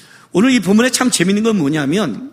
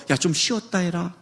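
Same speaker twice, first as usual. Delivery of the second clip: gentle parent; 5 semitones lower, 6 dB quieter than usual. Retold or imitated. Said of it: "부모가 이렇게 말을 해요".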